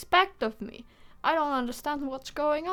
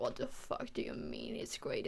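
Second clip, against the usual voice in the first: whispered retort; 9 dB quieter than usual. Retold or imitated. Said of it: "And I was just like".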